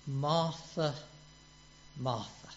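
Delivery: fading, tender call; a hint of Jesus calling her name softly; voicing Jesus tenderly. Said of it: "And Jesus says".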